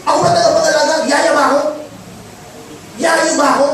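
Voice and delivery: mildly mocking what-am-I-a-nanny; a hint of bratty sass; sarcastic retort. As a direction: scoff at the question. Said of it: "ay sasabihin niya".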